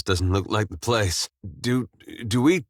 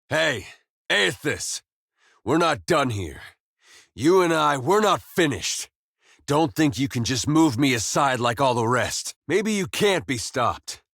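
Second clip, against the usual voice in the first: higher-pitched defiance, not shouted; defiant challenge; 4 semitones higher than usual. Acted. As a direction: demand to be heard, then vow a reckoning. Calls god back, vows return.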